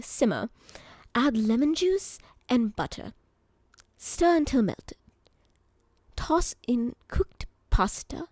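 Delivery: reading a recipe in a lightly done bad British accent; a hint of a British bartender reading instructions. Streamer reads bot Jim's scampi recipe, mock British accent. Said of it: "it'll be a bad British accent".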